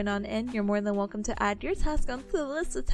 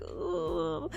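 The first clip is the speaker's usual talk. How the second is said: low ooh; 8 semitones lower, 5 dB quieter than usual. Retold or imitated. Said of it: "so I'm kinda like".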